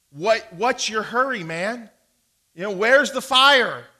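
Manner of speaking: ordinary talk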